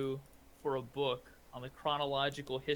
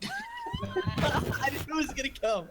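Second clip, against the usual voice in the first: laughing; 11 semitones higher, 5 dB louder than usual. Real, not acted. Player laughs at ogre line.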